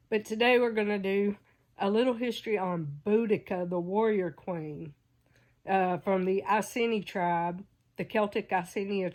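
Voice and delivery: a blocked nose on "warrior queen"; stuffed-up sinuses, talking quickly; stuffy nose. Real, not acted. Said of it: "I'm a little stuffy".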